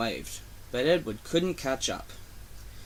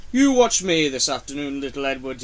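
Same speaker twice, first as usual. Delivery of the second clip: boasting; 5 dB louder than usual. Acted. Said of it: "he boasted".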